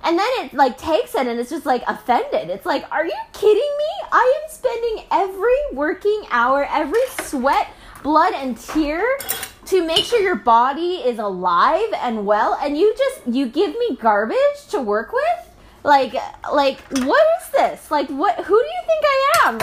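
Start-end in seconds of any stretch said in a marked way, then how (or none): 2.9-15.5 offended body. Retold or imitated. Body voiced as offended worker. 17.0-19.6 indignant body. Retold or imitated.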